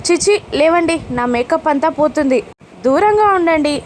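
put-on retelling an annoyed actress brushing kids away; scolding the kids. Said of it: "అని కసురుతుంది చిత్ర". (పిల్లల్ని కసురుతూ, కాస్త ఎత్తైన స్వరంలో)

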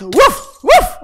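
playful woof, the second high and loud; mock dog bark. Barks like a dog.

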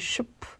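슈프 whispered as "shp"; word-initial SH. Shown as a demonstration. Teacher shows word-initial SP, whispered shp. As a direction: turn the S to SH in voiceless 슈프. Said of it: "에스티아처럼 슈로 발음이 돼요".

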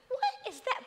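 surprised. Retold or imitated. Startled by loudspeaker message.

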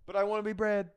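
high, loud cartoon-lad tirade; mock angry James. Podcaster voicing James's homophobic rant, high loud mock shouting. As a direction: rant it in a squeaky shouting put-on voice.

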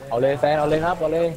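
cheering a teammate on mid-fight; excited cheering. Real, not acted. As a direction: urge him on, go go go.

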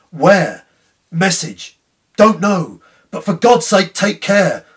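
anguished, near-shouted warnings; pitiable distress. A narrator's reading. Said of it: "His pain of mind was most pitiable".

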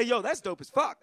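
"Yo, that's dope as fuck" in casual American street slang; easy American street slang. Shown as a demonstration. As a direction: toss off "dope as fuck" like back home. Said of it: "we say".

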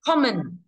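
common with a strong COM, weak ending; stress on first syllable. Shown as a demonstration. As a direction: hit the COM of common, let the rest drop. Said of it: "âm một, vẫn đọc là com".

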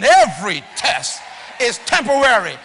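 emphatic, word-by-word preaching; with feeling. Shown as a demonstration. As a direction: declare it with feeling, leaning on each word. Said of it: "Say it with some feeling".

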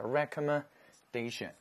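recommendation said slowly, every syllable spelled out; slow model word. Shown as a demonstration. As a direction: drag recommendation out syllable by syllable for the class. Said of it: "名词后缀加的是A T I O N".

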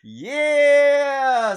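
very loud, high burst of laughing joy; screaming laugh. Real, not acted. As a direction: erupt laughing at the pull. Huge hit in the pack.

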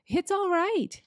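high, loud happy call; excited shout. Acted. Mister Beaver calling into the cave, excited shout. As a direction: call them out, all is well. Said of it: "he was shouting".

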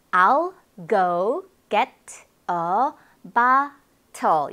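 very slow "I'll go get a bottle", pause after each word. Shown as a demonstration. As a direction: separate every word, both Ts clearly released. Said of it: "이렇게 되었겠죠?". (I'll go get a bottle을 한 단어씩 천천히 또박또박)

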